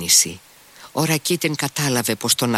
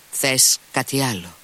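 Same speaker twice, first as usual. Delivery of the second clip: irritably; 4 semitones higher than usual. Acted. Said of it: "είπε νευριασμένα ο Αλιώσα".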